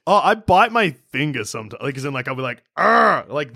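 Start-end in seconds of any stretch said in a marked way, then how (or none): 2.8-3.2 short stressed growl through teeth; frustrated growl. Retold or imitated. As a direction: growl like you're biting your finger. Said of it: "that classic, like, stressed".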